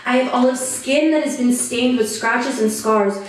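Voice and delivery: earnest first-person poetry recital; solemn, rhythmic performance; spoken-word poem. Acted. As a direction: recite a survivor's testimony in measured phrases.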